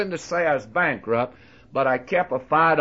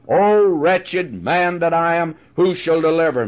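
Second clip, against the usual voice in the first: crying out; 3 semitones higher, 4 dB louder than usual. Pretend. Preacher voicing the drowning man's cry for help. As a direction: plead for rescue from the depths. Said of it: "that cries out".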